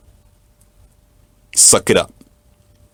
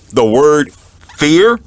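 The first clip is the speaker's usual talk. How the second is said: fear punched high and loud; stress on fear; 5 semitones higher, 4 dB louder, slower than usual. Real, not acted. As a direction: hit the word fear hard. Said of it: "should never be in your vocabulary".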